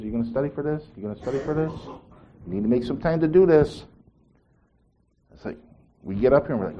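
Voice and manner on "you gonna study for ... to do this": Holy Spirit voice. Retold or imitated. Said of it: "The Holy Spirit".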